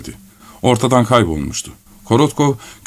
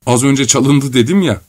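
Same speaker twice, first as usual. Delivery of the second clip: mildly plaintive, higher-pitched protest; whining; 4 semitones higher than usual. Acted. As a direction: complain with a touch of a whine. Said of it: "diye sızlandı Korotkov". (hafifçe sızlanarak)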